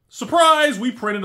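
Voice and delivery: high, loud mock cheer; sarcastic surprise. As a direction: sing it out like a cruel party reveal. Sarcastic jab at overprinting.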